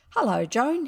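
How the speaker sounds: affected husky voice. A narrator's reading. Boy wooing the girl next door, affectedly husky. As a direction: put on intense affection. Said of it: "deep, husky voice intended to be expressive".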